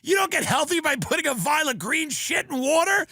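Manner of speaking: hammed-up high dying voice; dying friend. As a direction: play the friend choking on the greens, voice way up. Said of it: "He goes".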